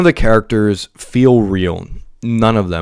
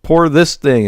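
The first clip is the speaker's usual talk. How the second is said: mock sorrow; 5 semitones higher, slower than usual.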